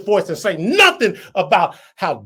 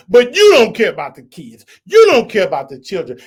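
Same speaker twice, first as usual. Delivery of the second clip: angry shout; 7 dB louder than usual. Real, not acted. Angry rant at party chairman.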